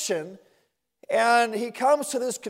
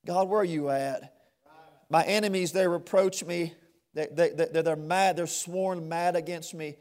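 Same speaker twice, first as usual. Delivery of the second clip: hushed lament; 4 semitones lower, 6 dB quieter, faster than usual. Acted. Voicing the psalmist's lament, hushed.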